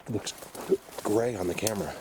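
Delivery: talking through hiccups; hiccuping mid-sentence. Real, not acted. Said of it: "Sorry, hiccups".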